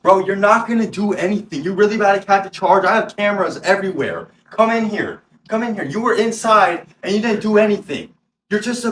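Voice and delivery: high, loud, furious tirade; retold screaming. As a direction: shout the threats at full heat. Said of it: "and I was screaming".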